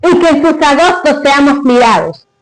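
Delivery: solemn recited verse; grand poetry declamation. Acted. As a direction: declaim it like a poem. Recites the father's poem.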